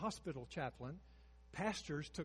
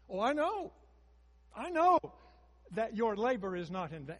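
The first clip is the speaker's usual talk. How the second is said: emphatic proclamation; 5 semitones higher, 10 dB louder than usual. Retold or imitated. Paul's confident claim voiced.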